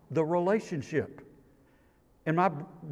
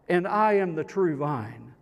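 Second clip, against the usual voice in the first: voicing Jesus; 4 semitones higher, 4 dB louder than usual.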